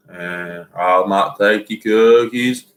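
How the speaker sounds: slow, lightly voiced mountain man; a hint of a backwoods mountain man, slowly. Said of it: "Say it in Mountain Man's voice".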